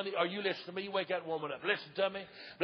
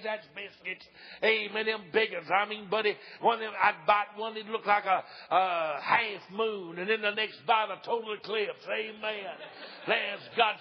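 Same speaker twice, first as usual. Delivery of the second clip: driving, rhythmic Southern revival preaching; fervent preaching; 3 dB louder than usual. Real, not acted. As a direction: preach it in punchy phrases with audible catches of breath. Preaching in full flow.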